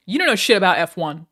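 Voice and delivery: loud ranting insult at chat; mock angry yell. Streamer insulting chat on request, mock furious yell. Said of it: "that would, like, help the brand".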